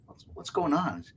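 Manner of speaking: soft, caring check-in; nurturing voice. Shown as a demonstration. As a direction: ask gently, like a caring parent. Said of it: "in your nurturing voice".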